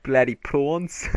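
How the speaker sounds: slow, mock South African accent; hammed-up South African accent. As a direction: tease with a put-on South African twang. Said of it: "That was South African".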